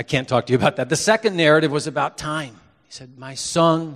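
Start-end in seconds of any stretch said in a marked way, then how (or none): 3.2-3.9 put-on father's Spanish accent, louder. Son imitating his late father, Spanish accent. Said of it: "he would say in his Spanish accent".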